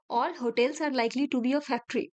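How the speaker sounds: each word drawn out slowly; slow teacher dictation of a statement. Shown as a demonstration. Rereads conclusion.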